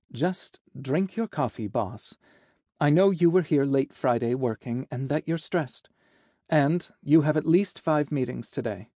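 gently chiding assistant, a little lifted; lightly voiced, caring but businesslike secretary. Secretary telling the stressed boss about meetings, lightly chiding.

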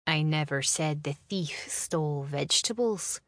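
sly, hushed gotcha; smug whisper. Acted. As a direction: whisper it slyly. James's smug trap line.

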